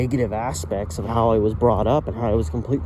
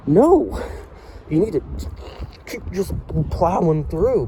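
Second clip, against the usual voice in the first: louder, higher push-back at himself; insistent self-talk; 4 semitones higher, 6 dB louder than usual. Retold or imitated. Vlogger overruling his own urge to quit, insistent. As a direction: urge yourself on over your own doubt.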